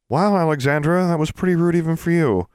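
react, shocked at a friend's rudeness; taken aback. A narrator's reading. Classmate to Alexandra after her rude remark, taken aback.

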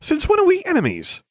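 very high, loud indignant question; affronted outcry, voice shooting up; exclaiming. Acted. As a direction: burst out in disbelief. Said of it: "I exclaimed".

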